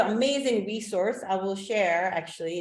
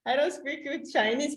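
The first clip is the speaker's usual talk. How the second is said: laughing modestly; 7 semitones higher than usual. Real, not acted. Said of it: "Well, actually".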